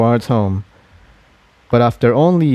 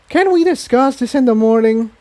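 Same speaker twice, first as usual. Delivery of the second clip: yawning; 12 semitones higher than usual. A narrator's reading. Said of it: "Tiptoe said, yawning".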